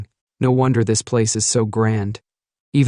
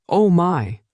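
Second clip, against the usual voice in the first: a higher, excited "Oh my!"; delighted exclaim; 7 semitones higher than usual. A narrator's reading. Archmage scooping up gold coins, delighted higher exclaim. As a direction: gasp it out with glee over the gold. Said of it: "He exclaims with delight".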